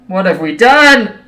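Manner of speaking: mock dramatic despair. Mock despair after mistake.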